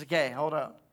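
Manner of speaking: low, soft, understated halt; calm interruption. Acted. Elijah stepping up to the prophets, low quiet command. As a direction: quietly take over, unhurried.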